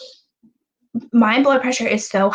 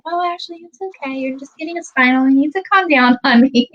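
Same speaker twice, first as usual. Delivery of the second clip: soft-spoken reassurance; 6 semitones higher than usual. Retold or imitated. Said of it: "like, soft-spoken".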